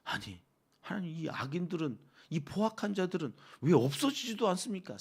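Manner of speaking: imploring prayer with a rising complaint; mildly acted desperate appeal; pleading David in lament. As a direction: plead with God for rescue. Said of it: "오늘 이 다윗의 마음인 거예요".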